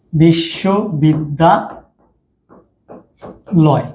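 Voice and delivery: বিশ্ববিদ্যালয় very slowly, broken into chunks with long pauses; syllables drawn apart. Shown as a demonstration. Teacher showing students how to count syllables, drawn-out chunks. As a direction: stretch বিশ্ববিদ্যালয় out, one breath-group at a time. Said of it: "যতক্ষণ তুমি টেনে নিয়ে যেতে পারো এক নিঃশ্বাসে".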